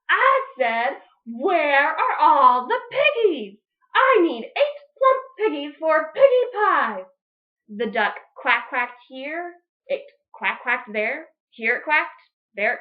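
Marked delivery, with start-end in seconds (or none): 0.1-7.0 loud insistent demand; witch voice. Acted. Witch Grinch demanding pigs from the duck, louder. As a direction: insist on her piggies.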